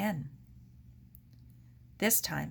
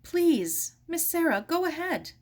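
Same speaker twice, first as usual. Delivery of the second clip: polite; 10 semitones higher, 5 dB louder than usual. Acted. Helen ushering guest.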